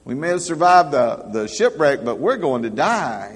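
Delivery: high, loud desperate pleading; castaway shouting at the calm one, frantic. Retold or imitated. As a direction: shout at your calm friend in panic. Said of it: "He kept saying".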